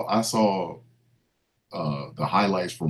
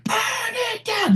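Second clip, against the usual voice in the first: high, slow wrestler catchphrase; wrestling promo; slower than usual. Retold or imitated. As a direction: call it out like an entrance. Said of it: "and then you gonna hear".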